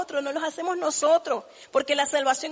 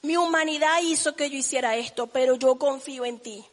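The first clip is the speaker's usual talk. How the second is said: humble prayer. Retold or imitated. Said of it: "centrarme y decir".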